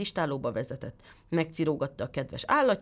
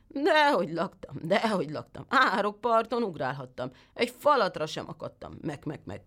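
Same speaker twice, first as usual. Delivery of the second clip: whining goat; 3 semitones higher than usual. Acted. The goat lies to the tailor in a whining goat voice. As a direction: whine it and trail into a bleat.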